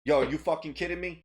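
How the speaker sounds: mildly exasperated, short of a fight; incredulous, without really yelling; exasperated disbelief. Shown as a demonstration. Showing that his griping is no fight, exasperated disbelief. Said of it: "elevating it to fight level and me going".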